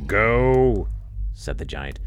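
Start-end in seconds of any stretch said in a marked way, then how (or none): 0.1-0.9 gruff command. Acted. Giant dismisses his wife.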